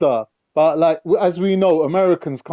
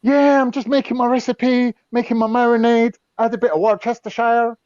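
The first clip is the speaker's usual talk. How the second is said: food channel host; 4 semitones higher than usual. Retold or imitated. Friend imitating a cooking show host. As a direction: present a recipe like a TV cook. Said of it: "the Food Channel".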